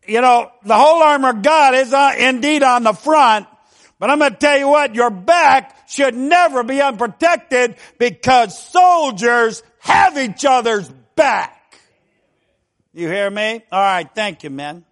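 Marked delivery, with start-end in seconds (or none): 0.1-11.8 raised, forceful preacher voice; preaching. Real, not acted. Preacher urging soldiers to guard each other's backs, preaching. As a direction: drive the point home loudly.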